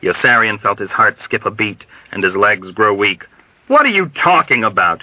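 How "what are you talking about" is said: high, alarmed demand; fearful, agitated outcry; dread-filled shout. A narrator's reading. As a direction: question him with rising dread. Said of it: "he shouted with dread".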